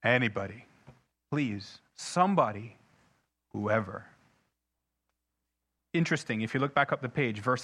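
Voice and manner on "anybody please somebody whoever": James pleading. Retold or imitated. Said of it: "Here comes James to say".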